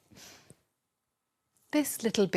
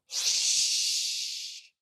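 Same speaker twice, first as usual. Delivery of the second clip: whisper. Acted. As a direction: hush them in a breathy whisper. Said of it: "whispered the little person".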